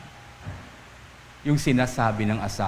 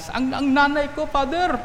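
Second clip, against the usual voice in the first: high-pitched, exasperated grievance about a parent; hammed-up youngster's indignant complaint; angry child complaining; 13 semitones higher than usual. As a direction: act out a kid fed up with mother. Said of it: "galit na galit sa mga magulang nila".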